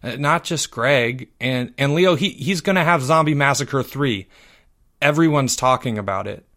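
halting, repeating words nervously; stammering. Acted. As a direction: stumble through it nervously. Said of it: "Timmy stammered".

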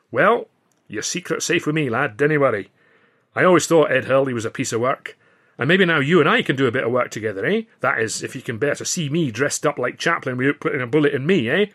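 a hint of a Scottish comic, delighted; lightly voiced Scotsman. Ritchie reassures the narrator.

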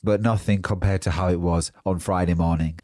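talking with a stuffy nose; congested voice from a swollen nose; blocked nose. Real, not acted. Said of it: "Still slightly blocked, as you can probably hear".

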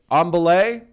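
high, loud call-out; demonstrated climbing shout; climber's call. Shown as a demonstration. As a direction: call "On belay" up the wall. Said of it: "you go".

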